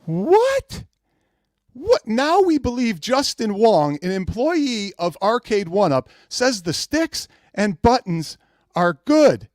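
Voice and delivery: high what, then slow mocking; sarcastic disbelief. Real, not acted. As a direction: spell out the absurd claim slowly. Host mocks Justin Wong's praise.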